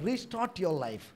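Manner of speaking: slow emphatic. Acted. Preacher urging a widow.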